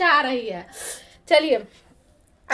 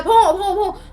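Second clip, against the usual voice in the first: dog barking; 5 dB louder, slower than usual. Retold or imitated. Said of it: "करता है".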